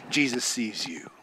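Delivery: low, soft whisper. Real, not acted. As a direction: breathe it like a secret. Intimate aside in sermon.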